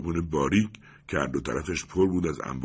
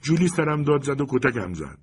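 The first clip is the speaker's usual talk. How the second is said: put-on high, loud childish complaint; whining; 10 semitones higher, 6 dB louder than usual. A narrator's reading. Crying little brother telling on Julie, whining. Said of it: "نقنق کنان گفت".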